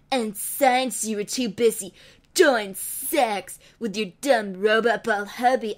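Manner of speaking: a hint of evil twin gloating; lightly voiced villain. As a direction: sneer it at the heroine.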